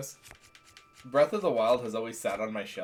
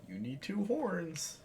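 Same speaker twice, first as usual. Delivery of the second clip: slow, higher monster drawl of a dragon; lightly voiced dragon, pitched up; 5 semitones higher, 6 dB quieter, slower than usual. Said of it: "This is my dragon voice".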